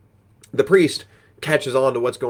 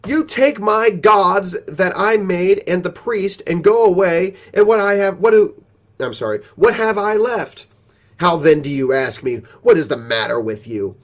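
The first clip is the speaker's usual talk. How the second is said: louder and higher, aggrieved complaint; upset protest; 8 semitones higher, 8 dB louder than usual. Acted. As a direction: wail at the thieves who robbed him. Micah protests the theft.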